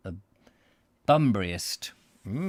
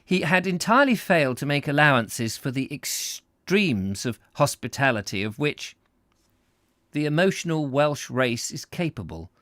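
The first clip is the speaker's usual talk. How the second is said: measured, emphatic storybook reading; story narration; 5 semitones higher, 5 dB louder than usual. A narrator's reading. Narrator reads comic story to listeners, expressive narration. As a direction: savour each descriptive phrase.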